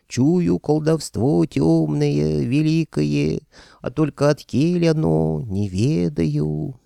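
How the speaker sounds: slow, high, loud mocking hag croak; creaky old crone impression. Nikita mimicking the old granny's verdict, slow creaky hag voice. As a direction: creak it out like the nasty old grandma. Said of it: "заскрипел противным голосом".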